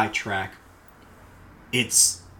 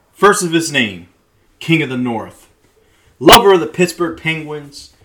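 town crier; 7 dB louder than usual. Acted. Mock royal proclamation opening message.

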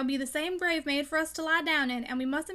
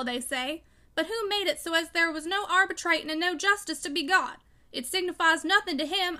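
loud, bitter unforgiving tirade; louder, vehement; 4 semitones higher, 5 dB louder than usual. A narrator's reading. Father urging Tom never to forgive his enemy, loud and vehement. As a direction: hammer out each grievance forcefully. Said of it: "he said in a louder yet deeper tone".

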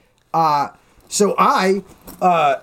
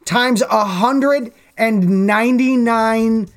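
slow, stretched counting while cracking up; drawn-out number; much slower than usual. Pretend. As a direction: drag out the huge number, laughing.

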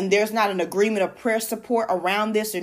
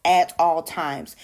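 "at all times" with each word given separate weight; emphasis on AT ALL TIMES; 2 semitones lower, slower than usual. Real, not acted. Preacher restating what God needs from us, stressing "at all times". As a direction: land deliberately on "at all times". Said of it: "Emphasis on at all times".

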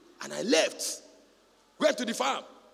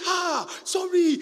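sympathetic wife; 9 semitones higher, 5 dB louder, much slower than usual. Retold or imitated.

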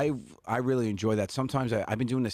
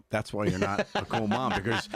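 mock scolding; 7 semitones higher than usual. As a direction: scold her with a laughing, lofty air. Mock scolding absent Mandy.

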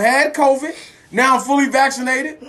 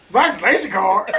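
mock disbelief. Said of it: "And you say".

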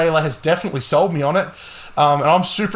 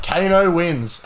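Australian Kano; slower than usual. Retold or imitated. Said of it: "And he's Australian".

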